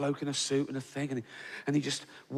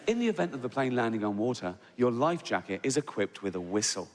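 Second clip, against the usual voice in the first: calm, lower cabin-crew announcement; safety announcement voice; 3 semitones lower than usual. Retold or imitated. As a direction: read it like the in-flight video. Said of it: "they say".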